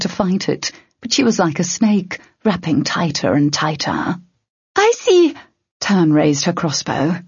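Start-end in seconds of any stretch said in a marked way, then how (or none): 4.8-5.3 high-pitched urgent cry. Acted. A companion in the middle of a troll fight, urgent cry. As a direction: call out high and sharp in a fight.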